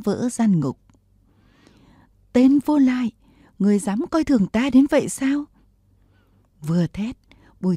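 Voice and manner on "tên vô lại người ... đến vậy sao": furious shout. A narrator's reading. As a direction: hurl it at him in rage. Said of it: "Viên nữ tướng hét lên".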